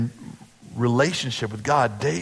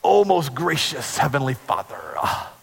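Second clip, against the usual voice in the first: best preacher voice. Retold or imitated. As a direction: preach it to impress the crowd. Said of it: "in his best preacher voice".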